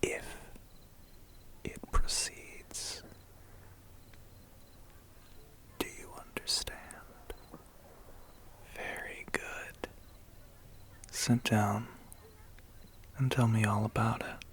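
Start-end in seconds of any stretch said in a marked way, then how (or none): 0.0-9.9 slow, hushed threat; quiet menace. Acted. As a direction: drop to a soft, deliberate near-whisper. Veiled threat to the captive human.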